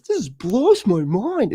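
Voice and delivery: lightly mocking the chatter's catchphrase, slow and high; imitating Wolfo. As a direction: drag it out in a dopey marvel. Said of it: "he always says".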